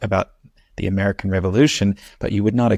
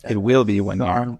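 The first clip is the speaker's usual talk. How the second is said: correcting, WILL picked out clearly; stress on WILL. Shown as a demonstration. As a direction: lean on WILL to fix the verb. Teacher corrects "would" to "will.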